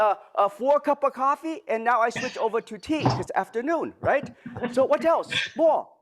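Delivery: hammed-up Japanese accent with dropped grammar; Mister Miyagi. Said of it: "my very bad Mister Miyagi accent".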